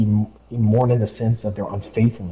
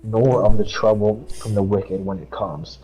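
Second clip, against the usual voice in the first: steady devotional read; scripture reading. Acted. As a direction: read it out like a verse at church. Reads Proverbs aloud.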